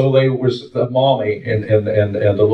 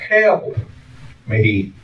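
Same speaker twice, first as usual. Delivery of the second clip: faint cry for help; 2 semitones lower than usual. Retold or imitated. Injured man calls up from below, faint cry. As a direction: imitate a distant, stranded man calling, slowly spaced. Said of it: "He could hear a faint cry".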